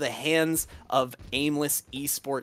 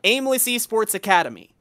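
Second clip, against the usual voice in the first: flat robot announcer voice; robotic monotone; 5 semitones higher, 4 dB louder than usual. Pretend. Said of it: "so robotic and monotone".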